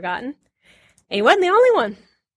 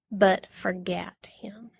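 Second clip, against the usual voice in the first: whisper; 4 semitones lower, 8 dB quieter, much slower than usual. Acted. Reading scripture, dropping to whisper.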